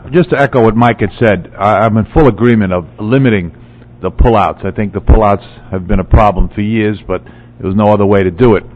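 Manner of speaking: losing voice, rough and hoarse. Real, not acted. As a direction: push words through a sore, hoarse throat. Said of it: "Excuse my voice, I'm losing it".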